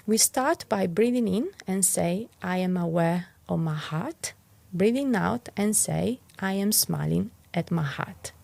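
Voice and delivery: calm, even guiding voice with gentle pauses; guided meditation. Acted. Teacher guiding listeners through a heart mantra, calm guiding voice.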